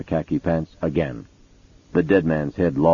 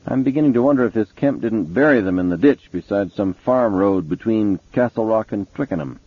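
higher, gruff cop voice; gruff police chief voice; 4 semitones higher than usual. Acted. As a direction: play the impatient detective. Mason speculates.

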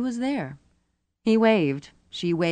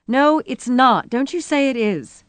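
upset cry; 7 semitones higher, 6 dB louder than usual. A narrator's reading. Rosie contradicting Gert's reassurance, crying out angrily. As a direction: cry out, refusing to be comforted. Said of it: "Rosie cried".

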